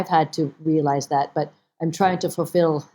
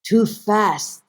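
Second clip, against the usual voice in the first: mother's voice; 2 semitones higher, much slower than usual. Retold or imitated. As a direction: list failures deliberately as mother. Mother lists her failed tests.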